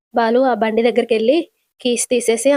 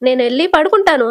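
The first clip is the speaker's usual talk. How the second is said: higher-pitched, mildly fed-up grumble; irritated; 4 semitones higher than usual. Acted. Shruti tells Ravi of her headache and leaves, irritated. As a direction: brush them off with mild irritation. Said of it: "అని విసుక్కుంటూ వెళ్ళిపోతది".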